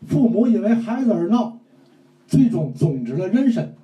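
mock Tianjin-dialect pingshu, pumped up; 天津话说书; imitating Tianjin storyteller. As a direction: ham it up like a Tianjin storyteller with rolled-up sleeves. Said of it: "那你给学学".

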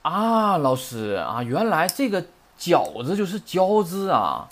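a student's loud sudden aha, then slow; mock aha moment of discovery; imitating a student who suddenly gets it; sudden realisation. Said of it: "恍然大悟的就说".

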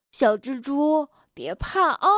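mock reassurance; teasing. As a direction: pretend to soothe, poking fun. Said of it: "跳跳取笑蹦蹦说". (取笑地假装安慰)

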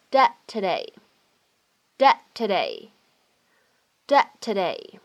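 "dead today" as dad today, the final d of "dead" held unreleased. Shown as a demonstration. Teacher demonstrating lost plosion, "dead today" with unreleased final d. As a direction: run "dead today" together, swallowing the d before t. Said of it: "我们可以有一个失去爆破的现象".

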